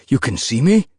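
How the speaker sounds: can't believe she sees him; surprised. A narrator's reading. Surprised question.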